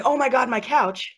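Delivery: a hint of hammed-up alarm; mock panic. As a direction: play-act fretting over the couch. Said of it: "you're not going".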